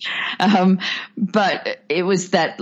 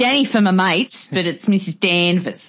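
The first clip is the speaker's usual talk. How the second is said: put-on Australian accent. Joking how the housekeeper Mrs Danvers would sound: Australian accent as Mrs Danvers. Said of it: "Judith Anderson was born in Australia".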